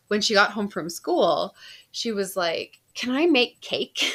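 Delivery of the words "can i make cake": put-on a lightly higher eager kid voice asking; imitating daughter. Daughter home from school asking mom to bake, light hopeful kid voice. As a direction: ask like a hopeful teen, pitched up a bit.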